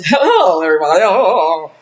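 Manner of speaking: put-on white voice, falling low after hello. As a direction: do a hammy white-person voice. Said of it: "it can have a white voice".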